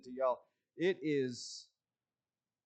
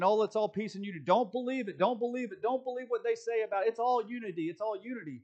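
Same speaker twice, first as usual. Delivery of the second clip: higher, sing-song mock reassurance; mocking quote; 5 semitones higher, faster than usual. Preacher mocking the former convention's claims of unity, higher and sarcastic. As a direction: parrot their empty reassurances with scorn. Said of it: "they're going around saying".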